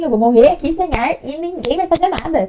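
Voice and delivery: hammed-up desperate complaint; retold panic. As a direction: re-enact panicked pleading to be believed. Retold panic at being disbelieved.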